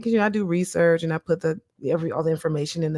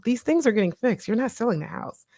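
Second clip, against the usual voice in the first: self-reassurance; 5 semitones higher than usual. Retold or imitated. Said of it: "reassure myself".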